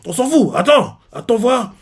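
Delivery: wounded pride, shouting a threat; furious shout. Retold or imitated. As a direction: hurl it at him in rage. Jiaga shouts threat again.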